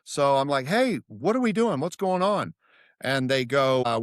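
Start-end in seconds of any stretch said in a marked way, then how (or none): 0.7-2.5 puzzled outsider. Retold or imitated. Walking into brainstorm meeting.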